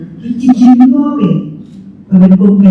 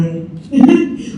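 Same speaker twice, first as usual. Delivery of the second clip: soft real chuckle, higher pitched; light, genuine little laugh; chuckling; 6 semitones higher, 3 dB quieter than usual. Real, not acted. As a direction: let out a brief laugh. Amused aside during lesson.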